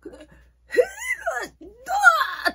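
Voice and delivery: booming high-pitched shout of a rowdy clerk; mock shouted greeting from the counter; loud izakaya clerk. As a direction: yell it like a pushy izakaya worker. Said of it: "っていうようなすっごいうるさい人".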